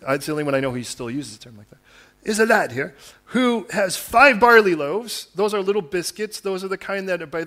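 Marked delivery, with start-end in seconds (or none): 2.2-5.3 slow, lilting mock Irish brogue; hammed-up slow Irish accent. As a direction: lean into a playful Irish lilt. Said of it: "which tells me he must be Irish".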